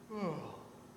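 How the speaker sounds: soft, falling sigh; weary sigh. Real, not acted. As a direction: let out a quiet, drawn sigh. Lamenting a people asleep.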